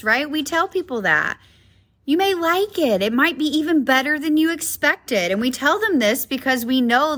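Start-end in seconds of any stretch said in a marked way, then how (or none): 2.1-5.3 encouraging. Acted. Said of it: "we encourage others".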